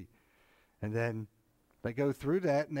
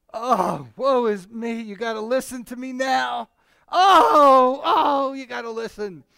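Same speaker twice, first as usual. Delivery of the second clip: hammed-up wail, much higher and louder, begging to be heard; mock woeful pleading; 9 semitones higher, 13 dB louder than usual. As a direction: overdo a desperate plea like a street preacher. Mock pleading preacher woman quote.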